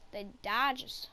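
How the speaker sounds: put-on light New York accent on The Dodgers. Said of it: "I said that like I'm from New York".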